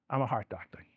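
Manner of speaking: hushed confiding whisper. Pretend. Telling the audience his real role, in a whisper. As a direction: lean in and whisper it like a secret.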